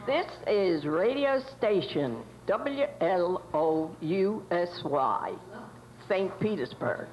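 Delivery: am radio. Acted. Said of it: "as it would have been broadcast from a nineteen twenties radio station studio".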